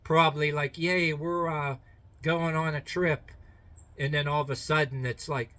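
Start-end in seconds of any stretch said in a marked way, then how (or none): 0.8-3.3 lightly voiced happy dog, raised pitch; a hint of doggy excitement; excited dog. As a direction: play a dog glad to be going on a trip. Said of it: "that dog was probably like".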